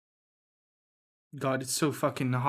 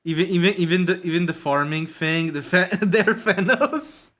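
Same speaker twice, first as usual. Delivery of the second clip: excited; 4 semitones higher, 6 dB louder than usual. Real, not acted. Excited discovery while drawing.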